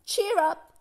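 high, cheery lift; grinning encouragement. A narrator's reading. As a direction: say it through a grin. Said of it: "she grinned".

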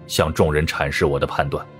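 ordinary delivery

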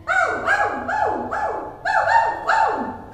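high, loud barking dog. Shown as a demonstration. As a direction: bark like a puppy. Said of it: "What does the dog say?".

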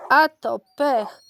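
loud, drawn-out exclamation; crying out. A narrator's reading. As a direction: exclaim it slowly and loudly at the bad luck. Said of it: "krzyknął pies Jeep".

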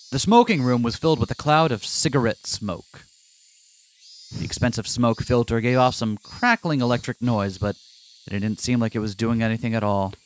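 plain. Acted. Reads game narration aloud.

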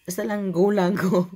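loud, eager push; excited. Real, not acted. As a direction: cheer yourself on. Excited retelling of reckless play.

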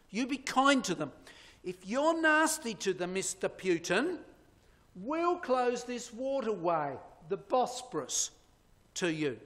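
quoting Erdogan. Retold or imitated. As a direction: lay down the law to Putin, then rush the threat.

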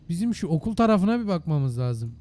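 pumped-up loud suggestion; loud call to the group. Real, not acted. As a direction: call the squad over to check the school. Rallying the group loudly.

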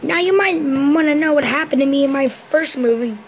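loud movie narrator; Deadpool voice. Acted. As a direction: announce it loudly to the audience.

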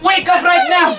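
put-on playful parent shouting the baby awake, laughing; laughing mock shout. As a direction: try to stay stern but crack up. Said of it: "Do it again".

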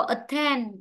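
"attend" stressed on its second syllable. Shown as a demonstration. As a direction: lean on TEND in "attend". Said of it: "trong ấm sẽ rơi vào âm tiết thứ hai". ("attend" nhấn vào âm tiết hai)

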